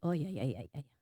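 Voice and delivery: low, soft string of empty yeses; mock passive agreement. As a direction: imitate absent-minded agreement, voice dropped. Mimics sermon listeners nodding along. (meniru iya-iya asal setuju, pelan)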